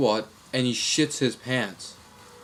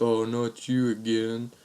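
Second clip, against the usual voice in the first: slow, mildly exasperated; understated dread, stretched slowly; retold weary groan; slower than usual. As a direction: imitate a fed-up prank victim, drawn out. Prank victim fed up, drawn out.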